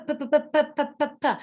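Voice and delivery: quick run of p pops; rapid bare p taps; voiceless p sound. Shown as a demonstration. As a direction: rattle off puh bursts. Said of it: "the letter P doesn't sound p".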